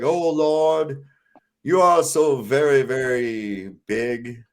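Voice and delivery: slow, grovelling mock worship; mock prayer. Retelling the Life of Brian prayer, mock solemn. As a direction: flatter God slowly and solemnly. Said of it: "he's doing the prayer".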